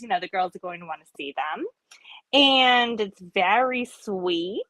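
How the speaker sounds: lightly voiced New York lady on the phone; a light New York customer voice for a role play; New York accent. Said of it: "that accent made me think of".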